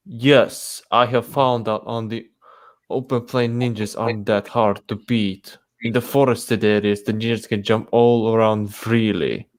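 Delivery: put-on tentative Japanese-accented character reading; attempted Japanese accent. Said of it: "I'm trying to give some, give him an accent".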